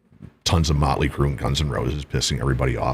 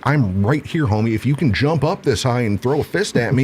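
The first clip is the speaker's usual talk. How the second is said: taunting; 6 semitones higher than usual. Retold or imitated. Acts taunt in a quarrel.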